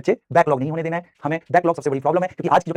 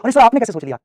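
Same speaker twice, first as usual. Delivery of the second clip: imitating a surprised pupil, raised pitch; mildly astonished question to the teacher; amazed student; 5 semitones higher, 3 dB louder than usual. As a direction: voice a pupil's wonder. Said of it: "वही तुम हैरान होते हो".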